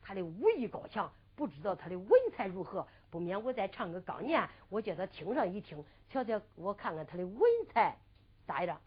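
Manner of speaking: hushed storyteller's inner monologue; secret inner thought. A narrator's reading. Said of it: "暗暗地想到".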